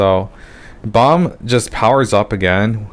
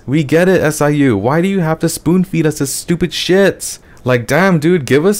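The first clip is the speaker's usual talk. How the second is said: exasperated high rant; 7 semitones higher than usual. Real, not acted. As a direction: throw your hands up at the writer. Ranting at the author, laughing.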